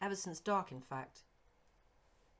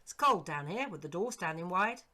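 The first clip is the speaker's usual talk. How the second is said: put-on eager old servant; 7 dB louder than usual. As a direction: pitch up as the startled, fond old retainer. Servant William's voice.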